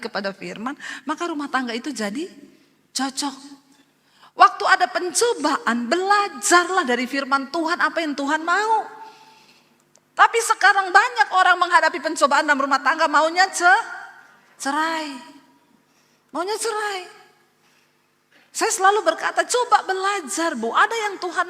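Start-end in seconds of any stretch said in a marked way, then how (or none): 4.4-13.8 raised, loud preacher's warning; preaching at full force. Acted. Pastor warning the congregation about divorce, preaching loudly. 16.3-17.0 "Maunya cerai" thrown up high in mock disbelief; high mocking repeat. Pastor mocking couples who want divorce, high and scornful.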